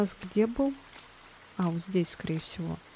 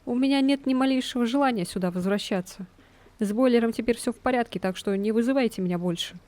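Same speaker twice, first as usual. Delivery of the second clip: jumpy repairman voice; 4 semitones higher, 4 dB louder than usual. Acted.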